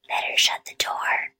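soft, voiceless whisper; hushed, cautious whisper; breathed whisper. A narrator's reading. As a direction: breathe it out under your breath. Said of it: "breathed Henry".

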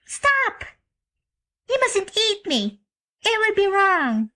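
put-on high, urgent girl's cry; a child calling the bear to halt; little girl crying out. A narrator's reading. Jane Gladys stopping the grizzly, high urgent cry. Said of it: "the child had a sudden thought and cried out".

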